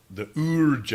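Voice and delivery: "Urge" said as German "OOR-guh"; long German umlaut vowel in "Urge"; mock-German pronunciation. Shown as a demonstration. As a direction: pronounce "Urge" like a German word. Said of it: "you're pronouncing it wrong".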